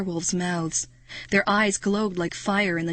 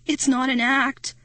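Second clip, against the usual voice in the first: stammering; 5 semitones higher, 3 dB louder than usual. Acted. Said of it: "I stammered".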